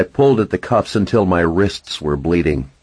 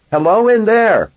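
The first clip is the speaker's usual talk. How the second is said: higher, polite middle-aged woman; lightly voiced fussy landlady; hotel clerk voice; 4 dB louder than usual. A narrator's reading. Narrator voices the desk clerk.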